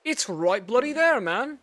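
loud, frustrated outburst; exasperated shout. Real, not acted. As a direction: yell it at the screen. Frustrated at the game screen.

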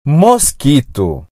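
mosquito said slowly with a clear T; slow, low mosquito with a true T sound; Portuguese-like pronunciation. Shown as a demonstration. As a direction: say mosquito as mos-KEE-to, crisp T. Headword in Portuguese-like form.

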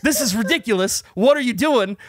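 high-pitched heated rant; retold yelling back. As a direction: act out yelling back in an argument. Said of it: "I'm yelling back at him".

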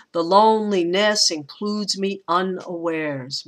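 steady iambic beat on "The loneliness includes me unawares"; straight iambic. Shown as a demonstration. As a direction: read "The loneliness includes me unawares" as four even da-DUM feet. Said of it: "I read it straight iambic".

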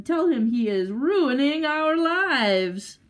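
loud, high, long drawn-out wail; exasperated cry. A narrator's reading. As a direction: stretch it slowly into a furious wail. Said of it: "cried the woman".

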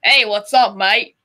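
lightly put-on Australian accent. Shown as a demonstration. Cuphead greeting a mate, lightly Australian accent. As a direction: play an Aussie, with a hint of the accent. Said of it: "I wonder if my Australian accent".

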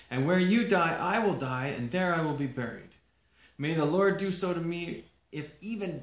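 loud, fervent pledge; Ruth's vow. Acted. Ruth vowing to follow Naomi, loud and fervent. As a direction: swear loyalty loudly, with conviction.

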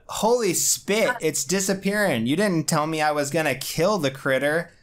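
a hint of a shocked Thing; Ben voice.

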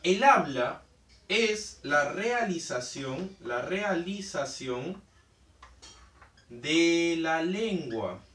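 slow, drawn-out phrases with pauses between; teacher slowing down so students remember; slow emphatic recap. Shown as a demonstration. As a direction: hammer home the key definition slowly. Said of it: "Bien, entonces recuerda".

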